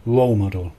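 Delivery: "role model" with the weight on ROLE, falling after it; stress on ROLE. Shown as a demonstration. Teacher shows stress on the first word, "role" in "role model". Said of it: "pronounced with the stress on the first word".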